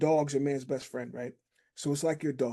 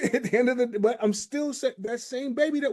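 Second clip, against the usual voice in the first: laughing; 8 semitones higher, 3 dB louder than usual. Real, not acted. Laughs mid-sentence.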